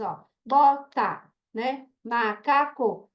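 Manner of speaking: bota and macaco said slowly, syllable by syllable; clapping syllables. Shown as a demonstration. Teacher to class, clapping out syllables. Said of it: "palma só se for duas sílabas".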